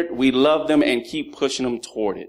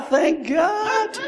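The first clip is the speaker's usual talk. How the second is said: shouted emphasis; slower than usual. Real, not acted. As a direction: shout "thank God" to the congregation. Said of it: "Can I say that one more time?".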